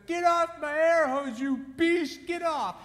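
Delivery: high, loud, slow mock yell; mock angry wife. Wife shrieking at the elephant on her air hose.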